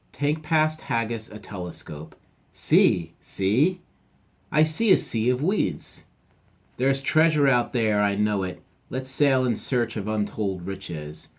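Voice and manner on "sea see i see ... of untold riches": dream aloud of treasure, eyes on the horizon; excited pirate pup. Acted.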